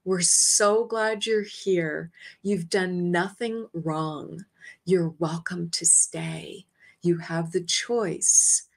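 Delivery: lightly voiced angel, calm and unhurried; gentle welcome. Archangel welcoming her home, slow and reassuring.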